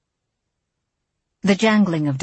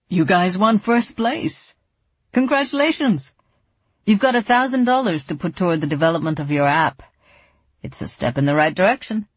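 smiling voice. Acted. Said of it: "There was a smile in his voice".

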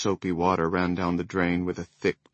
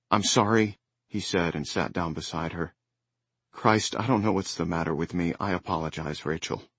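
apologetic; 2 semitones lower than usual. Acted. Husband apologizing gently.

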